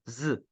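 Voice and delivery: "Z" as a short voiced buzz; Z sound. Shown as a demonstration. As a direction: demonstrate "Z" with the throat vibrating. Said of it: "que tem som de Z".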